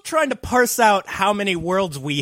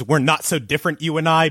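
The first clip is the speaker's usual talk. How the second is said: villain cliché; 4 semitones lower than usual. Retold or imitated. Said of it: "anytime somebody says".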